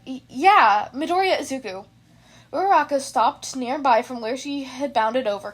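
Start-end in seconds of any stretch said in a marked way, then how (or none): 0.1-1.9 nervous loud stammer; nervous stutter. Acted. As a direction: stumble nervously on yeah. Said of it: "he stuttered".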